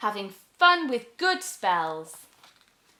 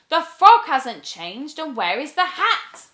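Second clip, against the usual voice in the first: puzzled witch; 6 semitones higher, 9 dB louder than usual. Acted. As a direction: ask in bewildered alarm. Witch puzzled after spell.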